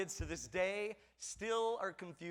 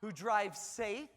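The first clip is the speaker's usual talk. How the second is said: imagined flattering wife; slower than usual. Pretend. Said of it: "meant, in my mind".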